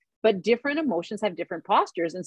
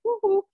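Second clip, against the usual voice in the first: mock whoop; 12 semitones higher than usual. Imitating a silly lady whooping.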